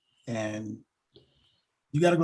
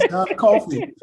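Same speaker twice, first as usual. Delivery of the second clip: John Coffey said through laughter, higher and louder; laughing retake; 9 semitones higher, 9 dB louder, slower than usual. Real, not acted. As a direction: redo the name John Coffey while still laughing at yourself. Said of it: "I don't know why I said it with an accent".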